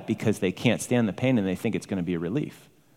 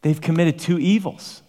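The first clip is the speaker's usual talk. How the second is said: voicing God; 4 semitones higher than usual. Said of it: "So God talks like this".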